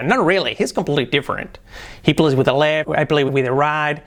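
livelier tune across "Not really, he's completely different". Shown as a demonstration. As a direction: give the sentence a natural melody. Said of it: "un poquillo más de entonación".

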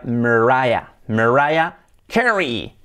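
slow "Mariah Carey" as mer-RYE-a KE-ree; first A of "Mariah" swallowed by R; English R-coloured vowel. Shown as a demonstration. Teacher summing up the sound, slow English pronunciation. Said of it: "con lo que sería".

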